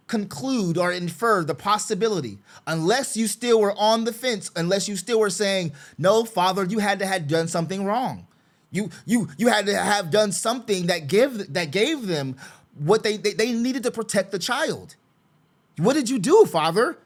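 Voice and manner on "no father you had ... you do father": sarcastic. Retold or imitated. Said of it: "Even though I'm being sarcastic".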